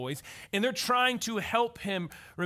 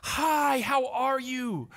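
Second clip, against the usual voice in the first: cheery teacher; 4 semitones higher, 3 dB louder, much slower than usual. Retold or imitated. Preschool teacher greeting kids.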